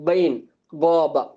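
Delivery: பைன், காபா opened with a ringing gh; resonant upper-throat sound. Shown as a demonstration. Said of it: "கணீர்னு வரும்".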